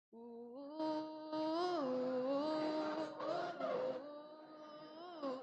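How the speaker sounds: soft high uh sounds; soft high girls' uh chant; high voice for the girls. Shown as a demonstration. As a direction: breathe out high little uhs. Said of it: "Com a voz fina".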